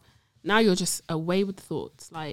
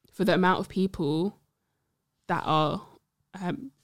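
hiccups. Real, not acted. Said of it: "Sorry, I got the hiccups".

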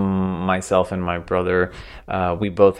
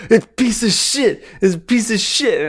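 high-pitched, louder impression of grandma mimicking a short temper; grandma's mock tantrum; 4 dB louder than usual. Grandma impersonating grandchild assembling Ikea furniture, high mock tantrum. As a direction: squawk it in exasperation as the imitated grandma. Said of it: "impersonating me, like, putting together something".

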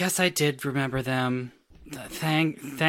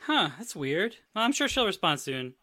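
put-on excited kid voice; 8 semitones higher than usual. Leo voiced high.

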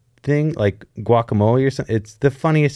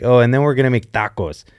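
put-on Mexican Spanish accent; faster than usual. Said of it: "And I sound very Mexican".

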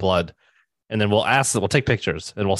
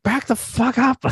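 very high-pitched mock telling-off; retold brusque rebuff. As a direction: imitate a singer shooing fans back, pitched way up. Retold singer rebuffing fans onstage.

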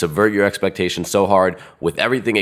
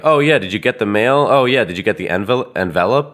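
imitating them; 3 semitones higher, 3 dB louder than usual. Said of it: "and you might be like".

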